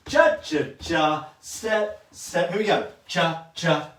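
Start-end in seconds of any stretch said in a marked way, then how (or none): 0.1-2.5 called count. Shown as a demonstration. Teacher calling the count to the class, loud. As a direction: sing out the beat. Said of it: "calling the count".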